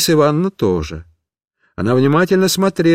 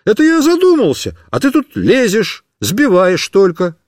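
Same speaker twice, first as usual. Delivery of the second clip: put-on indignant boy; 6 semitones higher, 3 dB louder than usual. Boy snaps at friend.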